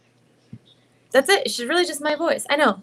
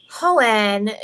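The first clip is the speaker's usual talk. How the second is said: Himiko voice; 4 dB louder than usual. Acted. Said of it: "she always goes".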